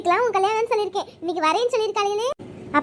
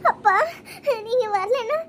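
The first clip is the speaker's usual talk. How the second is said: weepy words to her father; tearful; 2 semitones higher than usual. Acted. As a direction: speak through sniffles, overcome with feeling. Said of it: "ஏம்மா நல்ல நாள் அதுமா அழுகுற?". (அழுகை கலந்த குரல்)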